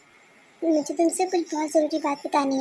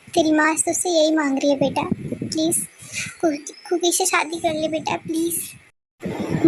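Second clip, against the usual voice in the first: tearful pleading. Acted. Mother begging son, crying.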